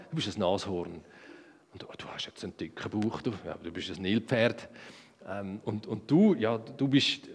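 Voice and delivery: leise, tiefe, staunende Stimme Adams; Adam benennt Tiere. Retold or imitated. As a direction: murmelnd wie beim Betrachten jedes Tiers. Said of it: "aber da hat er". (Adam spricht leise und staunend zu den Tieren)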